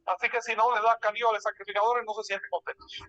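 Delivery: echoing as in a big hall; cathedral echo. Real, not acted. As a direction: voice ringing with room echo. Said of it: "hay un eco aquí".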